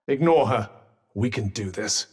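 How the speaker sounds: calm a partner under pressure; steadying reassurance. Acted. Steadying Frey in combat.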